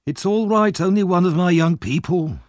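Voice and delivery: Fagin playing the kindly old man; fond old Fagin.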